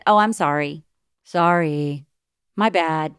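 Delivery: tossed-off, careless sorry; flippant apology. Shown as a demonstration. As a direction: brush off the apology lightly. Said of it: "not a flippant".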